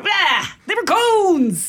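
drawn-out playful exclamation; yelled catchphrase. Retold or imitated. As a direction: cry it out slowly, half-laughing. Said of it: "goes wrong and I screw up".

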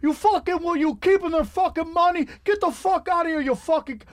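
high-pitched imitation of a furious rant; angry tirade. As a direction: tear into them, chasing them out. Acts out Joey Diaz scorching promoters.

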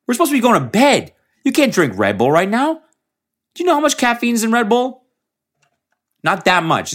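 high, loud, exasperated scolding voice; my body as an angry bro. Retold or imitated. Tired body scolds him for being out late, high exasperated yelling. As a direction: play your own tired body berating you. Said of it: "he's like".

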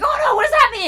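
put-on high-pitched frightened child; mock dread. Child asking grandpa mid-game, in mock dread.

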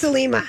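Selena repeated with an M, "se-LEE-ma"; mispronounced name. Shown as a demonstration. Co-host owning up to the new name, Selena said as "Selima". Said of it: "Do you like her new name?".

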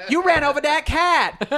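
women yelling at the driver from their car; accusing shout. Retold or imitated. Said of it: "they go".

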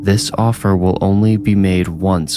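ominous hooded stranger. Acted. Hooded stranger warns girl.

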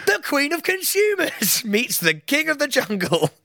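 high, slow, hammed-up announcement; excited shout. Charging at a TV guest, slow high excited proclamation. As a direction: bellow it like a game-show entrance. Running at Alice Beer, shouting line.

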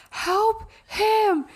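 mild mock panic yell; frantic call. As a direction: call out to the husband in alarm. Wife yelling at frozen husband.

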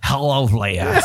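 slow, laughing tiny villain voice; a small boy playing the menacing villain, slowly; tiny Ben Mendelsohn. Friend doing a tiny Ben Mendelsohn for Leia, slow and laughing. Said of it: "You just did tiny Ben Mendelsohn".

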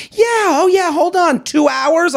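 mock sarcastic host. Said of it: "They're like".

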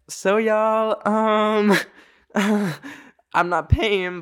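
high, slow, laughing confession; telling her friends she won't pay, high and laughing; nervous laugh. Retold or imitated.

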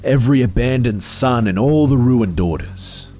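a rising, swelling declaration of vengeance; vengeful spirit proclaiming itself; vengeful phantom. Acted.

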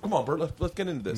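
mugging for camera. Retold or imitated. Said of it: "I start mugging for the camera".

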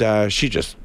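usual speaking voice

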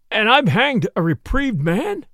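aghast, slow realization; horrified disbelief. Acted. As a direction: drag the words out as the horror sinks in. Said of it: "then horror".

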